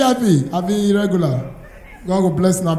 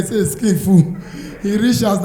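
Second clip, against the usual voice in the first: normal talking voice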